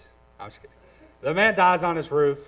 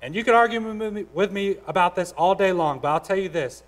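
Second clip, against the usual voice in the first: fired-up challenge; 5 semitones higher, 4 dB louder than usual. Real, not acted. Challenging the congregation.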